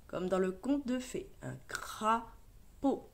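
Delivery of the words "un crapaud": un crapaud said slowly, with a little more flow; slow model reading. Shown as a demonstration. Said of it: "repeats word more fluently". (un crapaud lu lentement, plus lié)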